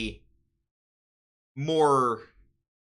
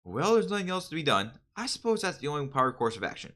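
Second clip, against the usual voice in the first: overacted anime dub; 2 semitones higher, faster than usual. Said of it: "Since I'm doing the dub voice".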